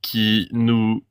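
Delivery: reading with a lisp, s turned to f; lisping through an old decree. Acted. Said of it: "je prononce le S avec un accent de merde comme si j'avais un cheveu".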